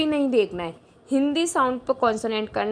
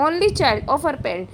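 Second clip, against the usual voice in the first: slow, deliberate repeat of the phrase; slow reread; much slower than usual. Shown as a demonstration. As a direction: read it again word by word. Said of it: "rereading sentence slowly".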